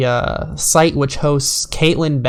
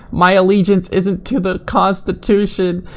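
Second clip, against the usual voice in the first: higher, mocking whiny-devotee voice; mocking zealot voice; 4 semitones higher than usual. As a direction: parody the tweet's fanatic author. Mocking quoted zealot tweet.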